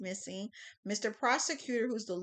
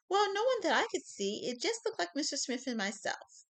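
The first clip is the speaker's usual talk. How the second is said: put-on old lady voice; 8 semitones higher than usual.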